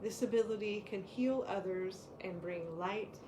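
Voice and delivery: calm, measured reading of an oracle card. Acted. Co-host reading the power card aloud, calm and measured. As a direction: read the card's message to the listeners steadily.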